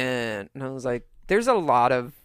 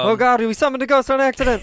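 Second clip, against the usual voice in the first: high, loud, fast pretend alarm; mock panic; 12 semitones higher, 6 dB louder, faster than usual. Co-host pretending the chant summoned a ghost, mock panic. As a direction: yelp it fast in hammed-up panic.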